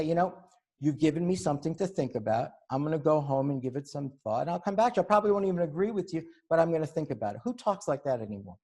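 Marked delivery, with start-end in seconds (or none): 0.0-7.4 reasonable liberal. Pretend. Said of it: "and they even say".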